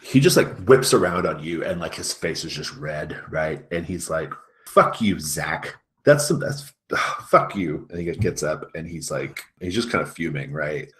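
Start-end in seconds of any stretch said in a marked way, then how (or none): 4.7-7.9 angry outburst. Acted. Angry student whips around.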